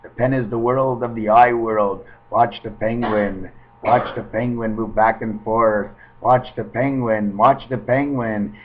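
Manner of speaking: a hint of stage hypnotist; mock hypnotist. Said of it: "mock hypnotist with penguin".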